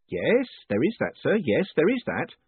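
a beaming prison warden teasing his prisoner; jovial warden. A narrator's reading. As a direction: play the cheerful warden gloating kindly. Warden agrees.

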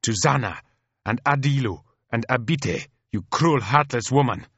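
high, impassioned accusation; squealed outrage. Acted. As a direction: explode at the sister, building to a bitter cry. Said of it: "let out a squeal like a steam whistle".

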